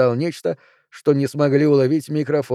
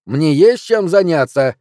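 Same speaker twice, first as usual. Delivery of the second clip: louder and slow, fed up; irritated; 3 semitones higher, 6 dB louder, slower than usual. Acted. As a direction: drag it out in annoyance. Olaf continues barking.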